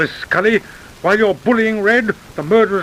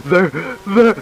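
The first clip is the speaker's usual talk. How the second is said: bitter laugh. Acted. Condemned man laughs at irony.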